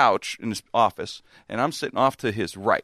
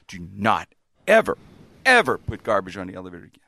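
stern retold reprimand. Manager warning tenant about garbage in the elevator, stern reprimand. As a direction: lay down the law, measured and firm.

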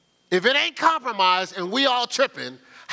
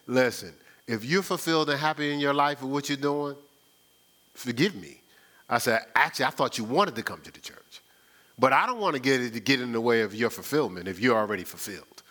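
dry, mock-humble sarcasm; 7 semitones lower, 3 dB quieter than usual. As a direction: fake politeness with a bite. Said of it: "y'all know that was sarcasm".

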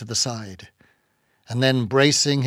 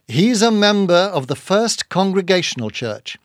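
higher-pitched, insistent assurance; eager vouching; 6 semitones higher, 4 dB louder than usual. A narrator's reading. Ishmael vouching for Queequeg's church membership, eager. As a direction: vouch for him with conviction. Narrator vouches for his friend.

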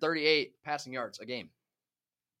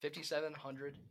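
moving handheld mic; 3 dB louder than usual. Real, not acted. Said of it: "You can pull it away from your mouth".

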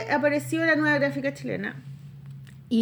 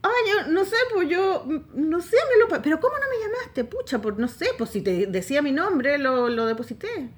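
sheepish laughing excuse; 4 semitones higher, 3 dB louder than usual. Retold or imitated. Herself voiced, laughing excuse.

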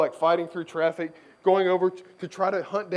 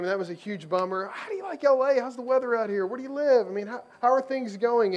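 higher-pitched, eager fan chatter; imitating gushing fans; 4 semitones higher than usual. Fans cornering a basketball star with small talk, mock gushing. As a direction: pile on the friendly small talk, lightly hammed up.

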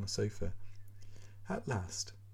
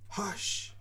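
unvoiced, higher timid shush; timid hush; 10 semitones higher, 3 dB quieter than usual. A narrator's reading. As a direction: shush meekly. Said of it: "Foma Nikolaich timidly".

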